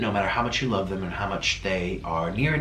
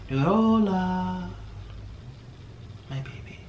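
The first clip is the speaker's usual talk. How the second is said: high, drawn-out call fading to a breath; longing call; 8 semitones higher, 4 dB quieter, much slower than usual. Real, not acted. Owner calling for her lost bird, in a high aching call that fades. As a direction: call out for the lost pet, then let it trail off.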